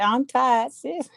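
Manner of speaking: "tired" with the r dropped, quoting a friend; drawled pronunciation of tired. Retold or imitated. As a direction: imitate a weary "tired" said as "tahd". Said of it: "but tired. That's a different thing".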